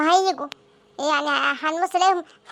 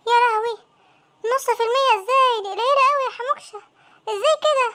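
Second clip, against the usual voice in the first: alarmed dismay; 4 semitones higher than usual. Acted. Friend panics over the tiny score.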